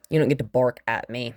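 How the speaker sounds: stern dog owner correction; firm scold. Real, not acted. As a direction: set the dog straight, no nonsense.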